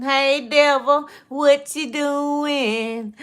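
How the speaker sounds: slow, drawn-out taunting call; mocking call to the devil. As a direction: stretch each word out, teasing the devil. Calling out to the devil.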